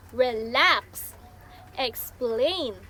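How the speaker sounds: "relax, explain" each weighted on the last syllable; "relax, explain" with the second syllable stressed. Shown as a demonstration. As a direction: say re-LAX, ex-PLAIN, one by one. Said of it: "stress in the second syllable".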